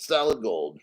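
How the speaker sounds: half to himself, in awe of the weight; low admiring murmur. Real, not acted. Admiring a heavy gold coin.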